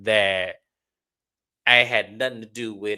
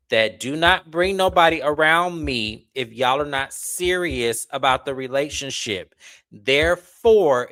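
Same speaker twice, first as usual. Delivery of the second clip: firm lecture; 4 dB louder than usual. Retold or imitated. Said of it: "I said".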